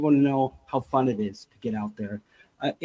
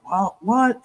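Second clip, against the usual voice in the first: sudden high startled "what"; high, mock-startled question; 8 semitones higher than usual. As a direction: snap round at a noise, jumpy. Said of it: "I go".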